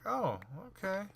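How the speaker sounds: high sarcastic okay. Retold or imitated. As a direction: pretend to believe him. Sarcastic acceptance.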